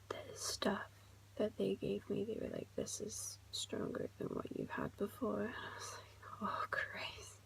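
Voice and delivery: soft, near-whispered vlog update; hushed recap. Real, not acted. Vlogger recounts nine-hour hospital wait to viewers, hushed recap.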